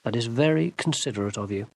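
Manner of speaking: mock gratitude gently; dry. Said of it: "said Crestomanci".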